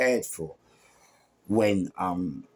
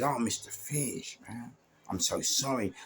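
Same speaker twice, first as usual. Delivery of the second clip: soft, contrite caller; retold apology; 2 semitones higher, 6 dB quieter than usual. Caller saying sorry to the doorman, apologetic. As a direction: imitate a softly spoken apology.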